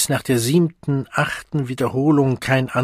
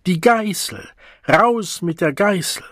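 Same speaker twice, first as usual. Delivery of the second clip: shouted demand; 7 semitones higher than usual. Acted. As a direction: yell for the whip. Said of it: "hörte er Schreie".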